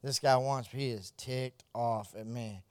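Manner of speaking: soft, low anxious prayer; quiet prayer. Retold or imitated. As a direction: murmur a nervous prayer under your breath. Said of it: "And I was just praying".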